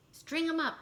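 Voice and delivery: high, loud angry mob cry; bay for his punishment; angry shout. A narrator's reading. Townsmen shout at poor Big Anthony, loud angry cry. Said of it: "the men of the town shouted".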